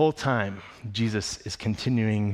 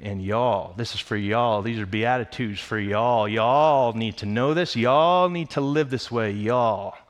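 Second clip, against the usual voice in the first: put-on Texan accent; slower than usual. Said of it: "He's talking like a Texan".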